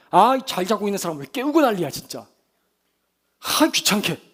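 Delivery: hammed-up grumpy snap, loud at first; mock irritated outburst. Imagined Jesus woken by disciples, mock annoyed grumbling. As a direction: play someone crossly woken up. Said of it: "화를 막 버럭 내십니까?".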